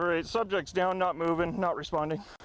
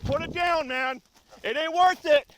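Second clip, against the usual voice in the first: higher, louder urgent order; raised command; 4 semitones higher, 4 dB louder than usual. Real, not acted. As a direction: urge him hard to drop it. Officer warns armed suspect.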